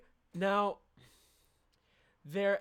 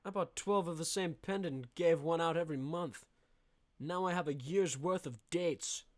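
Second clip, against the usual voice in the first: mock womanizer boast. Speaking as the womanizer.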